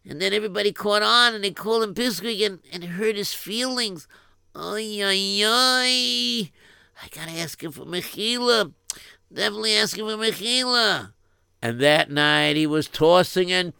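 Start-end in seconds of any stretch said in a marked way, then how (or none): 0.1-11.1 put-on lightly raised worried boy with a Yiddish lilt; fretting to himself in a Yiddish accent. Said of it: "he started thinking".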